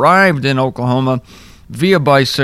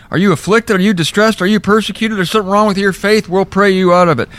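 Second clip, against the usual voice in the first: slightly higher, glib mock questioning; mock Tulsa preacher; 5 semitones higher, faster than usual. Mocking Tulsa believers questioning the afflicted, glib. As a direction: rattle off the questions glibly. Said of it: "they don't believe that in Tulsa".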